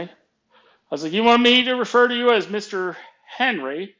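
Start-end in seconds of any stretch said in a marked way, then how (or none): 1.1-3.9 high, loud challenging question; indignant challenge. Retold or imitated. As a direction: throw his title back at him, pitched up. Retold comeback in workplace quarrel.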